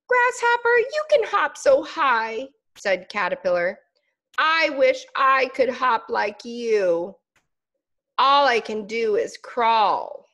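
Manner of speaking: a tiny bug gazing up in awe; admiring little caterpillar. Acted.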